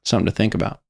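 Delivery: soft, low musing, like a sage; mock profound. Streamer closing his rant with a mock-wise thought, softly. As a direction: leave it hanging like deep wisdom.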